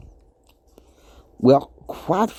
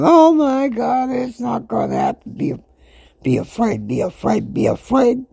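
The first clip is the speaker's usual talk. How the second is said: hammed-up fretful doom talk; whiny fearful voice; 7 semitones higher than usual. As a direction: imitate a panicky whiner. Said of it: "I started talking like that".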